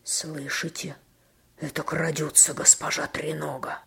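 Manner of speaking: hushed, sinister whisper; ominous voice. Acted. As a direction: say it darkly to scare her. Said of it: "проговорил Грен зловещим голосом".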